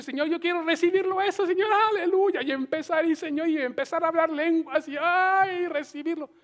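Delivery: creyente ansioso imitado. Pretend. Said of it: "Qué bonito es yo decir".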